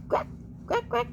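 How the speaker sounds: short, playful duck quacks; duck quacking. Pretend. Wondering if it is a duck, mock quacking. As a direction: imitate a duck in quick little bursts.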